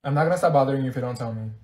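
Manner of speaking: ordinary talk, nothing marked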